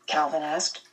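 normal talking voice

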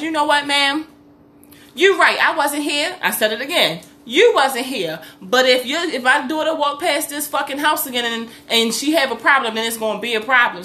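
retold heated warning to the mother; getting heated at the neighbour; rising anger. Escalating porch argument, retold.

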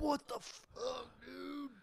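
high slow mock wail; whiny shock. Friend mocking his own shocked reaction, high wail.

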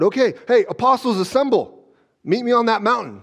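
playful call to assemble; acted rallying call. Acted summons to the disciples.

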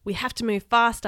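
a moderate story-time yell; urgent yell. Acted. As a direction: raise the voice to hurry them. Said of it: "I yelled".

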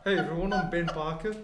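lightly put-on odd voice; odd-sounding double. Another universe's double introduces himself, odd put-on voice. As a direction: greet them as a strange alternate self. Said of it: "why do you sound like that".

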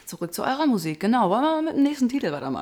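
slurring words a little; tipsy, words running together. Real, not acted. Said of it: "Ich lalle schon so ein bisschen".

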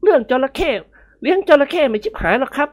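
mild surprised protest; exclaiming. Acted. Nikorn exclaiming against the elders. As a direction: scoff at the superstition. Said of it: "นิกรอุทาน".

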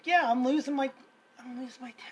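mildly agitated self-quote; mildly worked up. Retold or imitated. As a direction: replay being wound up, breaking off mid-phrase. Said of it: "And I kinda calmed down".

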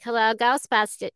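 lightly done New York accent on "Hello, Ghostbusters"; hint of a Brooklyn receptionist answering the phone. Shown as a demonstration. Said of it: "Can you do a New York accent?".

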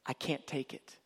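soft, hushed plea from Jesus; softly, as if overwhelmed by her gaze; overwhelmed God. Acted. Jesus to his bride, hushed and overwhelmed. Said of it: "and he goes".

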